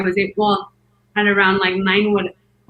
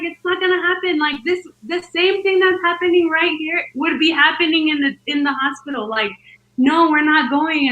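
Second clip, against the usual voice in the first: higher-pitched insistent refusal; exasperated, raised-pitch protest; retold argument with husband; 6 semitones higher than usual. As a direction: imitate arguing your husband down. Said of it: "I yelled at him".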